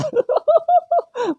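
high, far-off burst of laughter. Real, not acted. Player laughing as the man yells to wake her, high laugh.

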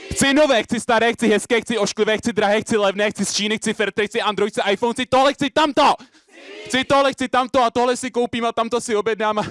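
high, insistent rapid-fire listing; greedy, driving slam chant; frantic slam list. Acted. Performs slam poem on stage.

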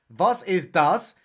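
slow, lightly put-on German accent; mock German. Suspicious copper questioning a dropped needle, slow mock German. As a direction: draw out each German word.

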